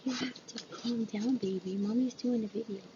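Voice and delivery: high soft soothing; calm the dog down softly. Real, not acted.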